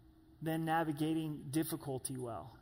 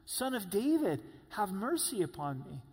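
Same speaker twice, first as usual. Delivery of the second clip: crying louder; 3 semitones higher than usual. Retold or imitated. Bartimaeus ignoring the crowd, calling louder to Jesus. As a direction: shout past those shushing him. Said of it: "begins to cry all the louder".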